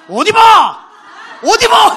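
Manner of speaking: 할아버지가 버럭 소리치듯; 문 차고 들어오며 호통; angry shout. Retold or imitated. Angry grandpa kicks door, shouting. (할아버지의 고함)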